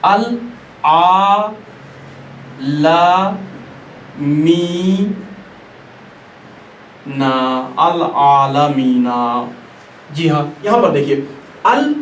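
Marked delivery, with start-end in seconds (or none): 0.0-7.7 अल आ ला मी ना spelled out slowly with pauses; each syllable of अल आलमीना held apart. Shown as a demonstration. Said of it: "इसकी मिसाल". 7.8-9.5 अल आलमीना drawn out slowly with ल clearly sounded; अल आलमीना stretched, the ल pronounced; slow recitation. Shown as a demonstration. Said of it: "इसकी मिसाल".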